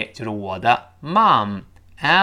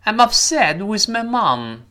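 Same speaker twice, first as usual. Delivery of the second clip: slower, raised, carefully stressed model English; model sentence reading; 9 semitones higher, 5 dB louder, slower than usual. Shown as a demonstration. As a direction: read it out slowly and high for learners. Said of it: "我们完整的读一下这句话". (放慢、提高音调示范朗读)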